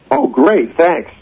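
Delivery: sarcastic thanks, lightly acted; retold sarcasm. Retells sarcastic reaction to dismissal.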